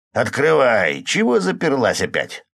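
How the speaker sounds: loud, rough yell through a door; rough shout. A narrator's reading. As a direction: bang and bellow to be let in. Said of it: "раздался грубый крик за дверью".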